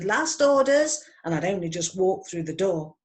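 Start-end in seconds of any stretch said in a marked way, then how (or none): 0.0-1.0 a pub landlord's call, higher, louder and drawn out; shouted last orders. Acted. Landlord calling last orders to the pub, loud and drawn out. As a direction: bellow it across the bar at closing time. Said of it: "Then somebody shouted".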